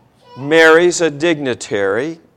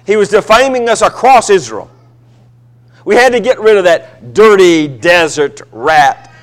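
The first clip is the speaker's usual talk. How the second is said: defensive outburst; 4 dB louder than usual. Acted. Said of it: "the guilty conscience comes out on her".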